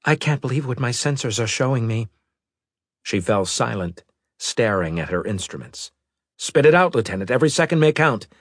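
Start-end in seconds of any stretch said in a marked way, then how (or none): 0.1-2.1 dread. Acted. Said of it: "with dread in her voice". 6.4-8.3 raised, commanding voice; urgent command. Acted. Captain urgently demands answer.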